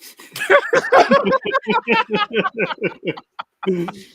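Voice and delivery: long, very high cackle; high-pitched laugh. Real, not acted. Host cracks up at the Krillin joke, long high-pitched laughter. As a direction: burst into drawn-out high laughter.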